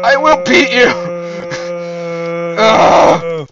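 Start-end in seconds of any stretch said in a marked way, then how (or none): 0.0-0.9 loud, high villain roar; roaring tyrant king. Pretend. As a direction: roar the threat at full force. Chasing friend as mock king.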